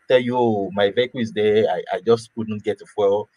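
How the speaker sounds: normal talking voice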